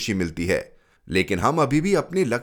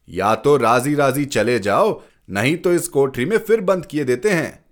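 louder, rising stern warning; stern threat; 3 semitones higher, 4 dB louder than usual. Acted. Father warns Ashutosh he'll be locked up again, stern and loud. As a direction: lay down the threat firmly.

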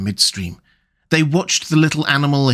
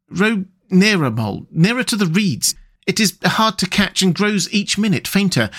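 a hint of a higher rat voice, dreamy and content; lightly voiced Rat; 6 semitones higher than usual. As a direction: Rat savouring the sun and the wind, lightly voiced. Rat urging Mole.

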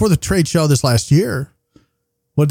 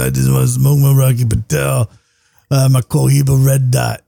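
put-on old smoker's voice. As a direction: voice like decades of Camel Unfiltered. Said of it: "do a whole episode in that voice".

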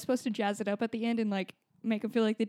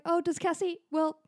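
snide mom; 4 dB louder than usual. Retold or imitated. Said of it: "the mom was like".

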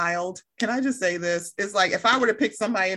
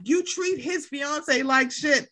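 slow telling-off; 5 semitones higher, much slower than usual. Retold or imitated. Acting out telling someone off.

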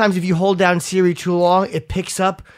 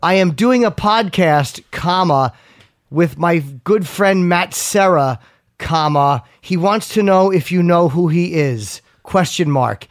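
slow, deliberate dictation with spoken punctuation; robotic dictating to a phone; voice texting dictation; slower than usual. Shown as a demonstration. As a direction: read it out like talking to Siri. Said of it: "I was voice texting".

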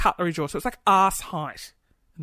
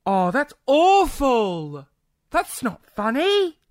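mock outrage; 5 semitones higher, 7 dB louder, much slower than usual.

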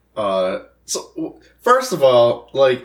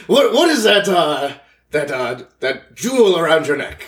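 proper cat voice; 4 semitones higher than usual. Acted. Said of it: "a cat would have a proper voice".

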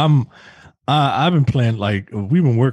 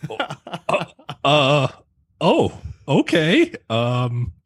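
hurt hesitation; 5 semitones higher, slower than usual. Retold or imitated. Tali's hurt reaction retold.

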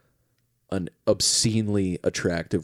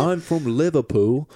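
mock Liverpool accent; 5 semitones higher than usual. Puts on British accent after remark.

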